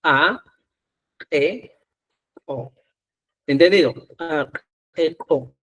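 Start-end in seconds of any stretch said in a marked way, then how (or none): 0.0-2.7 "A, e, o" each cut off sharply in the throat; glottalized syllables. Shown as a demonstration. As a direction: catch each vowel with a throat stop. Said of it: "el último glotalizado". (sílabas glotalizadas, cortadas en la garganta)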